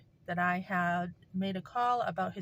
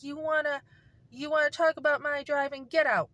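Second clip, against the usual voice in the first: mock angry husband, louder at the end; a hint of the husband's snapping tone, building to get out; 6 semitones higher, 4 dB louder than usual.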